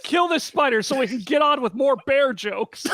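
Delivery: loud, laughing hype shout; excited shout. Real, not acted. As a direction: yell it with a laugh. GM hypes the kill.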